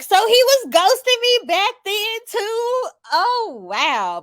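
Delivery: high, astonished squeal of disbelief; high disbelieving gasp at an old betrayal; mock shocked realization. Realizing ex ghosted her then.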